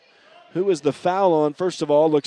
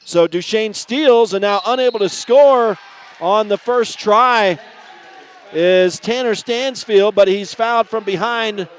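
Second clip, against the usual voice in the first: energetic running game call; live play-by-play; 3 semitones higher, 4 dB louder than usual. Real, not acted. Announcer following a steal and foul, live play-by-play. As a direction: keep up with the ball, building on the steal.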